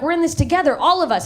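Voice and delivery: mildly worked-up solidarity; jacked up. Acted. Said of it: "you get all jacked up".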